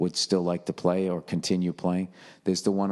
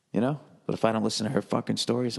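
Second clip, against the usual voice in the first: normal talking voice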